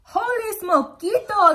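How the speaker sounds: high, loud and drawn-out cry; astonished storybook exclamation; excited exclamation. A narrator's reading. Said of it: "exclaimed Skippy".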